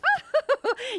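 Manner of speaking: put-on light old lady giggle; high twittering laugh.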